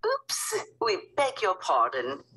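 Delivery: lightly voiced queen, high oops; high genteel queen. Queen apologizing for interrupting the president, high genteel. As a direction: pipe up a polite royal apology.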